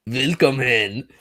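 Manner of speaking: drawn-out mock German welcome; slow, playful German accent; German greeting. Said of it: "do the German greeting".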